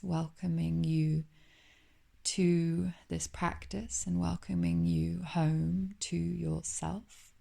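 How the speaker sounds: unhurried yoga nidra guidance with long pauses; calm meditation guide, lingering on phrase endings; guided meditation. Acted. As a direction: welcome them gently into calm, leaving space between phrases. Leads a yoga nidra practice.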